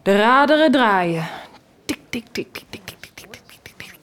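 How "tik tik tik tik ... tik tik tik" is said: whispered tik tik tik, fading away; ticking sound. Acted. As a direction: mimic a ticking clock, dying to a whisper. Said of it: "Dit is mijn journalistieke instinct dat je nu hoort".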